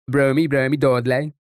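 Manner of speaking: mock Brummie, rising on "Dodlay"; West Midlands accent. Shown as a demonstration. Streamer asking if Midlands people sound so, West Midlands accent. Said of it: "West Midlands sound".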